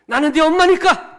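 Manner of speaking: the mother who ends the argument; mom's shouted trump card. Acted. 아이에게 말싸움을 끝내는 엄마처럼, 높고 크게 외치듯. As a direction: shout it high and loud. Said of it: "좀 괜찮았습니까?".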